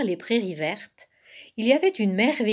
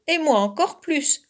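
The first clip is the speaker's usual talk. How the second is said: higher, mildly sorry cub voice; a touch of woe, pitched up; air désolé; 7 semitones higher, 4 dB louder than usual. A narrator's reading. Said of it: "d'un air désolé". (légèrement désolé, voix plus aiguë)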